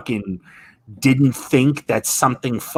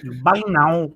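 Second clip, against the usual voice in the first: mock seller echo; 6 semitones higher than usual.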